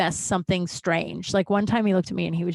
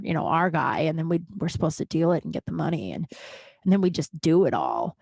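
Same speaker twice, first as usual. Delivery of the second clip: dead serious; 3 semitones lower than usual. Retold or imitated. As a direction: imitate dad confessing, grave and unhurried. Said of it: "he was so serious".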